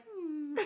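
humming mock purr; imitated cat purr. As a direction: hum like a contented cat. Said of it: "like, purring".

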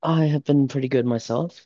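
words around a sip of drink; talking between sips of a can; drinking while talking. Real, not acted. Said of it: "sorry, I'm drinking a Monster".

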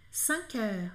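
"Cinq heures" with a rounded vowel, softly; careful rounded "cinq heures"; French cinq. Shown as a demonstration. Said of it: "o coração assim na boca".

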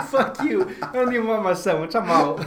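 mock pissed off. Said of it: "I'd be so pissed. I'd be like".

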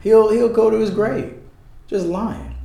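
high, loud outburst; sudden shout. Real, not acted. Ranting about the lie, a sudden high shout. Heated rant about lying.

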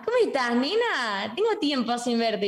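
lightly imitated Argentine mom on phone; Argentine accent. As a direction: greet a relative with an Argentine lilt. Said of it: "de repente agarró el teléfono". (leve acento argentino de mamá al teléfono)

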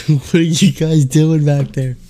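high, slow mock call to the back; calling to staff. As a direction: call out in a drawn-out, high questioning voice. Imitating customer calling to staff.

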